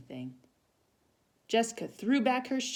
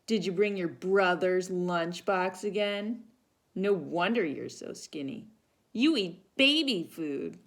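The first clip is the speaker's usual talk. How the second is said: taunting; 3 semitones higher, 5 dB louder than usual. Acted. Bully taunting Jessica.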